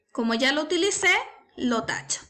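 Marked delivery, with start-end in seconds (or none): 1.6-2.2 whispered under the breath; whispered aside. Real, not acted. Teacher crossing out a word on screen, whispered aside. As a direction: mutter it to yourself while crossing out.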